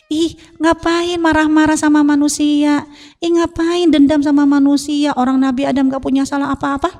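high-pitched, incredulous scolding; exasperated protest. Acted. Preacher protesting pointless anger at humans, exasperated.

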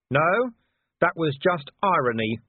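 shouted. Acted. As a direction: shout back with dry irony. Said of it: "Vimes shouted".

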